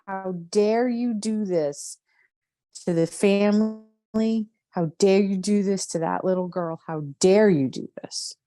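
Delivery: rising outrage, slow and pointed; angry accusation. Acted. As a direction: let the anger out at him, word by word. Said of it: "Yes, go ahead".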